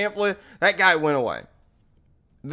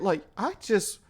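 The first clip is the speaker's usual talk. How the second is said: hushed, halting stammer; softly faltering, mildly fearful; scared; 5 dB quieter than usual. Retold or imitated. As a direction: imitate a nervous bystander stumbling over words. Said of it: "I'm sitting there scared, kinda shaking a bit".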